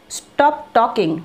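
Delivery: very slow "Stop talking"; slow model phrase. Shown as a demonstration. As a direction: drag "Stop talking" out for learners. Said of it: "তো just বলো". (ধীরে "Stop talking")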